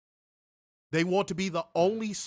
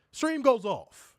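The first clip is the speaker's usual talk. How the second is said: slow, loud, higher punchline; slow threat; 8 semitones higher, 6 dB louder, much slower than usual. Real, not acted. Host warning viewers about likes, slow emphatic threat. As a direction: drag out each word as a warning.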